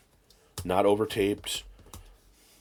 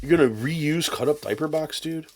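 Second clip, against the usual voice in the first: mock JP; 8 semitones higher than usual. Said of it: "that's my J P impression".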